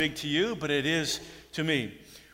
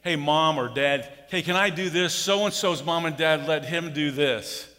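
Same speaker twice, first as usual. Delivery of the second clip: put-on whiny kid asking permission; kid begging parents; 3 semitones higher, 4 dB louder than usual. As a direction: beg mom and dad like a child. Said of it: "We would go home and say".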